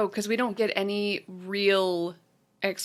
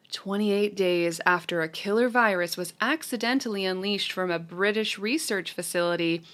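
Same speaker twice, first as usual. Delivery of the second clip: reading a synopsis. Shown as a demonstration. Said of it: "the synopsis from Letterboxd".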